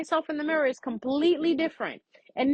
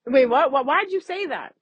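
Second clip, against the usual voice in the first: shocked; 3 dB louder than usual. Retold or imitated. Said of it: "You're gonna be like".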